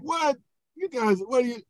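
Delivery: high-pitched incredulous exclamation; mock disbelief. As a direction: react baffled at these people, high-voiced. Acting out God's disbelief at complainers.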